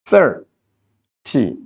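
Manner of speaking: "Thirty" broken slowly in two, THIR, pause, TY; split into syllables. Shown as a demonstration. Teacher writing out the syllables, "Thirty" said as THIR... TY. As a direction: pull "Thirty" apart, stressed THIR then a separate TY. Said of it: "How many syllables? Two syllables".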